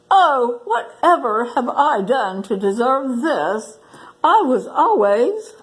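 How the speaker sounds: mild mock moan. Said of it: "clutched at his heart and moaned".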